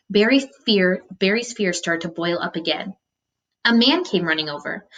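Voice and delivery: steady read-aloud narration; story narration. A narrator's reading. Teacher reading a novel to students, storytelling voice. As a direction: read the chapter aloud to the class.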